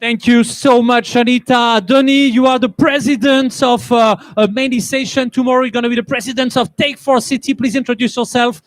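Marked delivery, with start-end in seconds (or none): none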